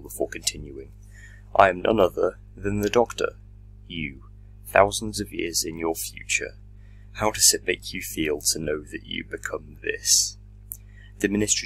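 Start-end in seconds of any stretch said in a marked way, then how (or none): 1.5-10.4 menacing villain. Acted. Minister reveals himself.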